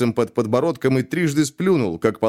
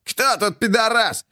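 high, slow growling taunt; a slow, menacing growl of victory; 11 semitones higher than usual. A narrator's reading. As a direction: snarl it down at the beaten rival. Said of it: "лишь замахивался и рычал".

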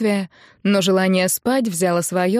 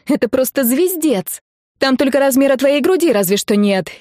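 возмущённый крик; 4 semitones higher, 4 dB louder than usual. Acted. Подруга вопит о сливе данных.

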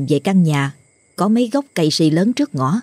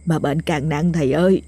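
broken telling. Acted. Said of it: "vừa kể đứt quãng".

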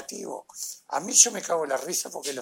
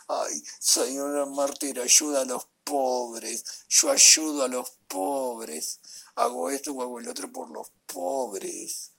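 mock martyr. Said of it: "le encantaría estar reventada para ser mártir".

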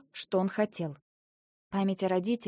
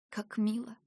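smirking; 2 semitones higher, 5 dB quieter than usual. Acted. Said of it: "усмехнулась я".

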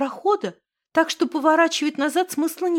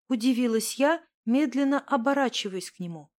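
usual speaking voice

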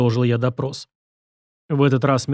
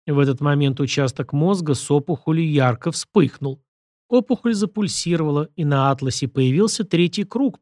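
ordinary delivery, nothing marked

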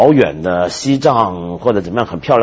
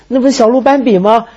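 put-on child's excited cry; 12 semitones higher, 4 dB louder than usual.

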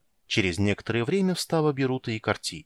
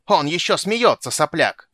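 loud, higher scolding cry; angry shout; 5 semitones higher, 6 dB louder than usual. A narrator's reading. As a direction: bawl at the laughing youngster. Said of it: "кричал Арталан". (гневный крик старика)

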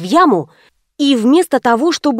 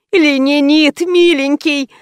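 higher, effusive greeting; gabbling; 4 semitones higher, slower than usual. A narrator's reading. Grateful neighbour accosting the father, gabbling. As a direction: gush at him in an excited chirp. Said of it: "затараторила она".

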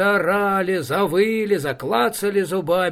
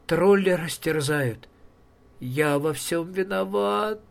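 put-on sobbing boy; 4 semitones higher than usual. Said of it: "всхлипывает за кустами Сампо".

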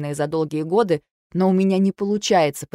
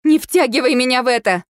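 higher, louder cracking protest; voice breaking; 7 semitones higher, 6 dB louder than usual. A narrator's reading. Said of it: "срывающимся голосом возражает Хелен".

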